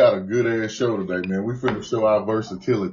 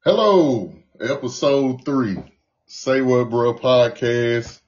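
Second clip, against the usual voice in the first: game show host voice; slower than usual. Acted. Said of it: "I see you with the game show host voice".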